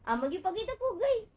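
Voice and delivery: playful laughing line, rising at the end; laughing tease. Real, not acted. Teasing baby about headwrap.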